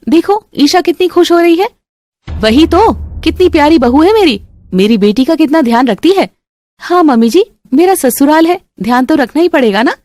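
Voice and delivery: high, sugary voices; sweet-talking daughter-in-law. Acted. Roshni fishing for praise from her mother-in-law, high and sugary. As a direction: lay the sweetness on.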